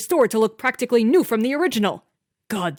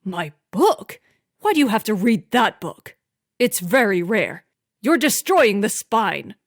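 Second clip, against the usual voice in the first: louder, indignant husband's lecture; fussy scolding; 5 dB louder than usual. A narrator's reading. Husband scolding wife for damaging rare book, indignant. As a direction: scold her for handling it.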